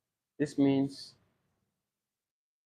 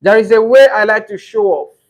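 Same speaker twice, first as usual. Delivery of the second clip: examiner and candidate; 3 semitones higher, 6 dB louder than usual. Shown as a demonstration. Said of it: "Then examiner will go like".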